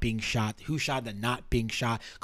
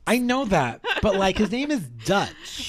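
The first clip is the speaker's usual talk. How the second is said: laughing; 6 semitones higher than usual. Real, not acted. Laughing at name joke.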